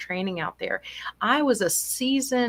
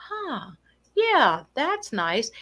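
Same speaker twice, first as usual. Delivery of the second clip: mild content mother; 3 semitones higher, much slower than usual. Retold or imitated. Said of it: "And she said".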